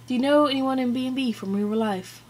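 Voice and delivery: put-on British accent, amateurish; attempted British accent. Shown as a demonstration. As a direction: read it out in a dubious British accent. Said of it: "attempt a British accent".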